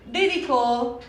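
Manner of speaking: slow, spaced dictation; диктует медленно, пока пишет на доске; dictating while writing. Shown as a demonstration. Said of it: "Comecei com a letra grande".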